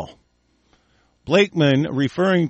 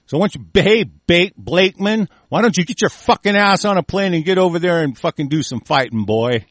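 shouting at him, a bit higher and louder; real angry outburst on the radio; furious rant; 4 semitones higher, 4 dB louder than usual. Real, not acted. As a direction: tell him off hard. Ranting at Blakeman on air.

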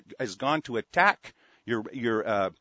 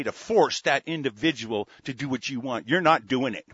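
angry threats. Real, not acted. Radio host yells threats at Bible thumpers, furious. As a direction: snarl it straight at them, daring them.

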